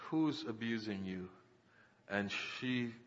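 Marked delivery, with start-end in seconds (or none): 0.1-1.3 low, hushed question; retold fearful question. Preacher retelling his question at the altar, hushed trepidation. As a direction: ask it softly, with trepidation. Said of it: "fear and trembling".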